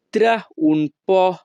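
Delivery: ত্রা উন পো with পো said short as পহ; Italian pronunciation. Shown as a demonstration. Teacher to Bengali learners, careful Italian pronunciation. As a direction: end on a clear পহ, not পিও. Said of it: "এখানে পিও এর উচ্চারণ হবে পহ".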